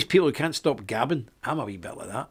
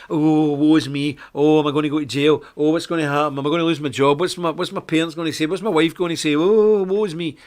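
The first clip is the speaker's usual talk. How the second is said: mock whining ninny; 4 dB louder than usual. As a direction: moan like a sorry ninny feeling sorry for himself. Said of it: "sitting there like some ninny".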